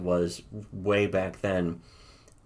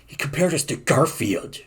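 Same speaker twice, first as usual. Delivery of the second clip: higher-pitched mock outrage; retold indignation; 5 semitones higher than usual. Editors fuming over the Garfield comparison, mock indignant. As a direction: imitate someone offended, pitched up. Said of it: "they got fucking pissed off about it".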